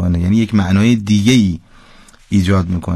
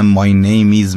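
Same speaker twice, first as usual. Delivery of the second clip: English with plain Persian sounds; demonstrating Persian-style English pronunciation; Persian-accented English; much slower than usual. Shown as a demonstration.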